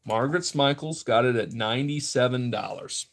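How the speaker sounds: rhythmic auction bid calling; steady, sing-out auctioneer patter; auctioneer's bid call. Real, not acted. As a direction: call out each new bid to the room. Calls live online auction bids.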